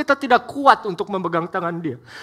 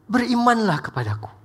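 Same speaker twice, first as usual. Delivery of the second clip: tender reassurance; 6 dB quieter than usual. Acted. God speaking tenderly.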